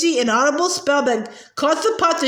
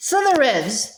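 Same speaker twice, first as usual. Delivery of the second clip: yelled. A narrator's reading. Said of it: "yelled Gaunt".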